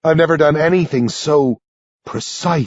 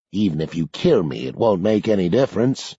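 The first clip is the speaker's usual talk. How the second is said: put-on low, softer old man, giving up; resigned rasp; 5 semitones lower, 3 dB quieter than usual. A narrator's reading. Old man telling the boys it's useless, rasping. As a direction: rasp it with no fight left. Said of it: "Sanderson rasps resignedly".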